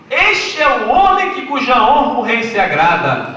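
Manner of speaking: slow, loud royal proclamation; proclaiming aloud. Pretend. Haman imagines his own honour, loud herald cry. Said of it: "gritando bem alto".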